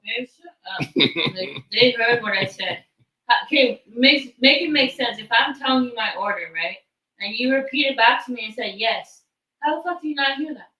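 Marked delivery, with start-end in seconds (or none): 3.3-10.7 loud, raised-pitch indignant complaint; exasperated arguing. Real, not acted. Customer arguing about a misheard order, loud and exasperated. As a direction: spell it out loudly, fed up.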